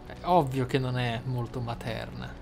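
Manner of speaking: ordinary talk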